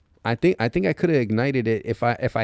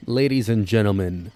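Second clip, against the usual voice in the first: showing off; 3 semitones lower than usual. Pretend. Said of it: "behold the magnum opus".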